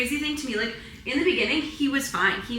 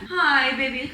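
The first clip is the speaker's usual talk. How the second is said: cooing at dog; 3 semitones higher, slower than usual. Real, not acted.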